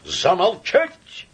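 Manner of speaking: high, loud, slow command; thundering order. Acted. Samoylenko silencing Laevsky, thundering. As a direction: bellow it.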